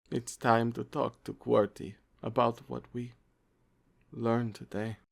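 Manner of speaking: a touch of gloom, quietly; sad Bob. Acted. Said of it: "Bob said in a sad voice".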